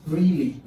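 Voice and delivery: "Really" falling at the end; a settled downward "Really"; certainty. Shown as a demonstration. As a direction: say "Really" as a sure statement.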